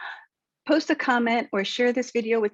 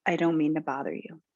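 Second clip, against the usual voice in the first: lower, matter-of-fact demo; composed, lower-pitched statement; unapologetic; 4 semitones lower than usual. Shown as a demonstration. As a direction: state it low, with no apology in the voice. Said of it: "can be said without the word sorry".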